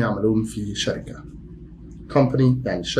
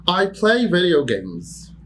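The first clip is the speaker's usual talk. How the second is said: high, slow, "play" stressed; high slow model; 5 semitones higher, much slower than usual. Shown as a demonstration. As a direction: dictate with "play" lifted. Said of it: "teacher demo".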